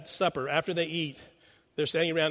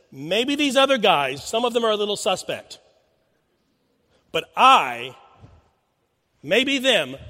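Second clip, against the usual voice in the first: loud, proud, brash boast; a cocky disciple swearing loyalty, loud and proud; 2 semitones higher, 7 dB louder, slower than usual. Retold or imitated. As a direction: puff up and promise far too much. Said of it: "a little boldness, a brashness maybe".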